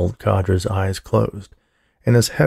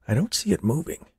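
whispered; 7 semitones higher, 5 dB quieter, faster than usual. A narrator's reading. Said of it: "he whispered".

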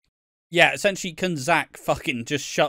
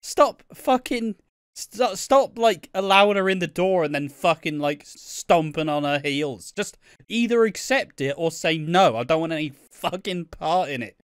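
much higher, louder shrieking rant; mock furious rant; 6 semitones higher, 4 dB louder than usual. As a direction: yell at him to stop messing her about. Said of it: "It's like".

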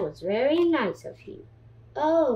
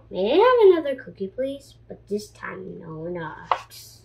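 eager pigeon ask; 3 semitones lower than usual. Acted. Pigeon rushing to ask the duckling for another cookie, fast. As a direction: blurt it out eagerly.

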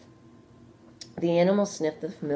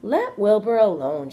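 higher, much louder sharp telling-off; sharp rebuke; 6 semitones higher, 10 dB louder than usual. A narrator's reading. Charlotte rebuking the lamb for insulting Wilbur, sharply. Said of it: "she spoke sharply to the lamb".

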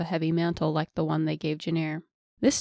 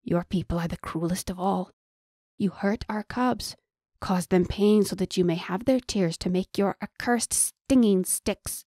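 menacing. Acted. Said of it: "deliberately, menacingly".

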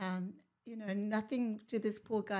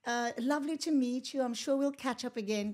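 higher-pitched, chatty reassurance; bright reassurance; 4 semitones higher, 5 dB louder than usual. Retold or imitated. Woman retelling meeting a nervous man, chirpy reassurance. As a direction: put a nervous person at ease, a bit loudly.

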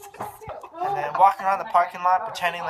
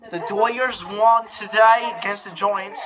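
a light mock British accent, slowed down; a lightly voiced British accent mixed with Spanish. Announcing the game score for the camera in a mock British accent. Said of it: "He's trying to do a British accent with Spanish".

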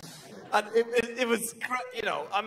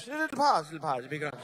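mock reassurance; 6 semitones lower than usual. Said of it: "Oh, you're all right".

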